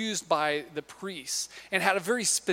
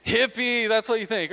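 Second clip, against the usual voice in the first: playful punchline; 4 semitones higher, 4 dB louder than usual. Acted. Punchline to the crowd.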